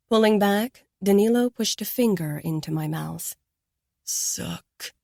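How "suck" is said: breathy, whispered order; whispered command. A narrator's reading.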